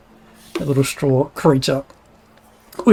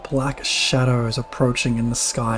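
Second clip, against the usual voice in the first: scene narration. A narrator's reading. GM scene setting.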